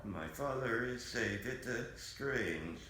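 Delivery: flat mechanical robot voice. Pretend. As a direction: speak like a computer voice. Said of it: "sounds exactly like a robot".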